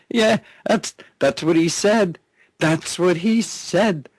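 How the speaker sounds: high-pitched, fresh out of a laugh; incredulous amusement. Real, not acted. Radio host marvelling at Holder's claim, incredulous and high-pitched. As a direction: squeal it out in amused disbelief.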